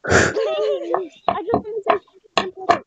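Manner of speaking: loud, high, rushed plea; urgent pleading. Real, not acted. Friend begging to say something important, loud and pleading. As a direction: cut in fast and plead to be heard.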